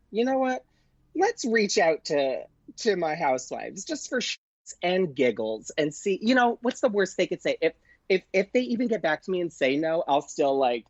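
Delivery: a bubbly dare-to-myself voice; excited self-talk. Retold or imitated. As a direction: pump yourself up on a whim. Retelling her excited self-talk.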